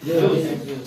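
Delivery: very slow and low, word by word; drawn-out low teacher's model; slow model sentence. Shown as a demonstration. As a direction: spell it out slowly for pupils. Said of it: "यहाँ take का इस्तेमाल करेंगे".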